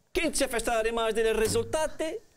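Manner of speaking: hammed-up fake Italian; mock Italian accent. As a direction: cod Italian, slowed. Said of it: "castigo é falar em sotaque italiano".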